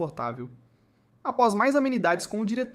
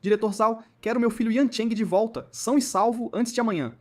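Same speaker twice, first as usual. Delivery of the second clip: coldly; 3 semitones higher, 3 dB louder than usual. Acted. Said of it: "disse friamente".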